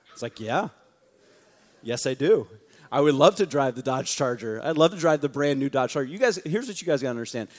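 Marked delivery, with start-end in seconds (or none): 0.4-6.1 louder, gushing yes to the Charger; mock eager delight. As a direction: act thrilled at the upgrade. Retold delight at Charger offer.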